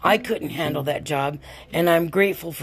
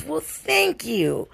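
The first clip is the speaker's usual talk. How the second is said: put-on grateful young woman; 9 semitones higher, much slower than usual. Stranger's voice in retold story.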